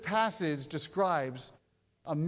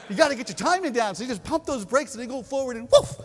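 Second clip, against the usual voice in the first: louder, higher, fast and eager; mock-excited retelling of the tip; excited imitation; 5 semitones higher, 8 dB louder, faster than usual. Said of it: "I was like".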